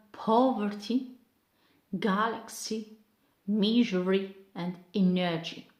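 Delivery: word list "poverty, galaxy, misery, energy", each stressed at the front; stress on first syllable. Shown as a demonstration. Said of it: "put stress on the first syllable".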